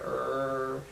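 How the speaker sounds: low, quiet throaty growl; imitated dog growl. Mimicking the family dog, a soft low growl. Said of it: "like, a little growl".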